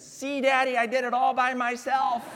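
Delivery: put-on high, triumphant child's boast; proud toddler. Pastor voicing his daughter's proud claim to her dad. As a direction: crow like a proud three-year-old. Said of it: "and said".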